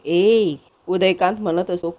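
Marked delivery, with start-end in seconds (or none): 0.1-0.6 a short, mildly louder shout; narrator's mild shout of ए. Acted. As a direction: snap out the word ए a bit louder, not a full yell. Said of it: "जोराने ओरडतो".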